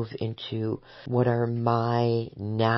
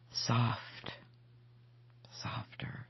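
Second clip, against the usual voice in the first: hushed, near-voiceless whispered mantra; 9 dB quieter, slower than usual. Acted. Speaker easing her own gripping and tensing, whispering. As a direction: whisper it to yourself, very softly. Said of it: "I whisper".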